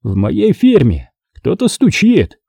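high, slow, angry outburst; angry accusation. A narrator's reading. Boss announces an informer in his outfit, angry.

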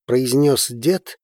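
plain reading voice

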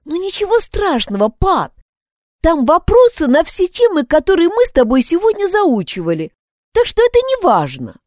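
высокий девичий голос, уговаривает; успокаивает подругу, голос выше обычного; girl reassuring. Acted. Isabel voiced, reassuring sister. (Изабель уговаривает Пат, что это не важно, высоким девичьим голосом)

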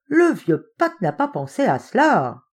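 high-pitched cry of discovery; exclaiming. A narrator's reading. Hopkins realising what old Pat overlooked, exclaiming. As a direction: exclaim at the flaw you just found. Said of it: "s'écria Hopkins".

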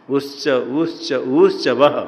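उच्च slowly, the opening उ longer each time; three vowel lengths. Shown as a demonstration. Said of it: "उ ह्रस्व उ". (उच्च में उ धीरे-धीरे लंबा)

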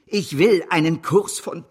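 grand slow proclamation. Acted. Banker stuns his partners, proclaiming loudly and slowly. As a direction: proclaim the target like a triumph. Banker announces outrageous goal.

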